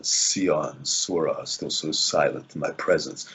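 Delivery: low, slow practice chant of a line; deep morning voice. Shown as a demonstration. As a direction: drop the pitch and draw the words out. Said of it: "my practice line was".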